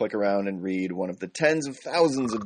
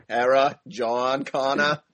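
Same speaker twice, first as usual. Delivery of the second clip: slow, over-enunciated action-hero impression; Christian Bale; 3 semitones higher, much slower than usual. Host keeps riffing on Terminator, mock Bale voice. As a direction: stretch the names out dramatically. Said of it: "Terminator Salvation era Christian Bale era".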